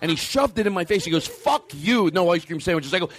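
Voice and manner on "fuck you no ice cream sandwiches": mock aggressive. Audience member refused ice cream, mock aggressive. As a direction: act out an indignant customer. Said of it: "So you take it aggressively".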